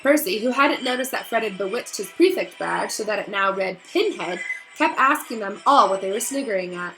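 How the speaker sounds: put-on lively read-aloud to children; story reading. Teacher reading Harry Potter to her class, animated storytelling.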